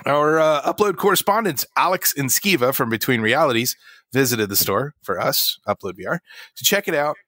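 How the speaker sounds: lightly announced news intro; news presenter read. Acted. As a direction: read it like a news host throwing to a colleague. Presents news, hands over.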